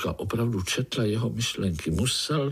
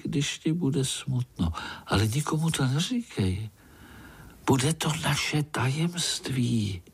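much higher, sweet fairy-tale voice; magic golden fly; 5 semitones higher than usual. Acted. Golden fly offering the spider a wish, high and sweet. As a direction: promise a wish like a tiny fairy.

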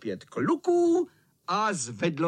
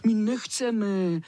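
higher, drawn-out whine; mild mock crying; crying children; 5 semitones higher, slower than usual. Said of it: "plakali kluci".

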